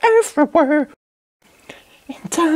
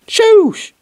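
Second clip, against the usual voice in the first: sharp shush; 5 semitones higher, 4 dB louder than usual. Acted. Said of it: "We got to be quiet".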